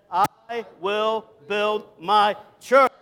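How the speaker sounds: slow, separate words rising onto "church"; stress on "church". Shown as a demonstration. Preacher leading congregation in Jesus' words, stress on "church". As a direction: step word by word up to a punched "church". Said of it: "we're gonna emphasize each word different".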